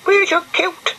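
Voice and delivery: muffled, from inside a shell. Acted. Brian asks from inside his shell, muffled. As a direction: speak as if hidden in a shell, high and smothered. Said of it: "he said in a muffled voice".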